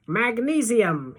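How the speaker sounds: high, drawn-out yell; thrilled, slow-stretched cry; excited shout. A narrator's reading. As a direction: call it out high and loud, stretching the word. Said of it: "he shouts as the white sparkles glitter".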